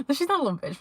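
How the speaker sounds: high, quick laugh into the words. Real, not acted. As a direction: laugh as you hurry to take it back. Laughing while taking back the insult.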